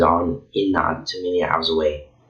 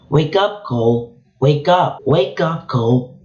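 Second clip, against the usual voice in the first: desperate shout; 8 semitones higher than usual. Acted. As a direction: yell his name to wake him from a fit. Calling out to wake Cole.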